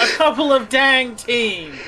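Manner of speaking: mocking the line. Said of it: "And who talks like that again?".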